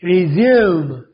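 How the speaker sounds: रिज्यूम said slowly as ri-ZYOOM, stress on ज्यूम; careful demo word. Shown as a demonstration. Teacher models रिज्यूम for students, clear and deliberate. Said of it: "तो बनेगा रिज्यूम".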